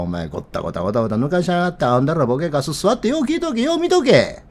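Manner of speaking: mock rough Osaka tirade, rattled off in places; Meloni's retold scolding. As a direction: play at telling someone off, voice rising at the end. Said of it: "と、メローニは言うてるんです".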